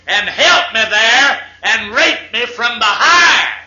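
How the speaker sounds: building to an indignant holler; mild outraged shout. Acted. Brenda's story builds to outrage.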